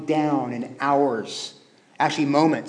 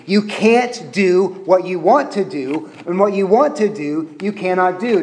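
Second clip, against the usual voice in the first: «want» выделено, медленно; stress on want; 2 semitones higher than usual. Shown as a demonstration. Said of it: "Let me translate that for you".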